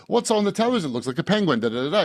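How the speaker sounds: quoting comedy in a put-on English accent; Monty Python. Host quotes his childhood favorite, imitated English accent. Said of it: "I grew up quoting Monty Python".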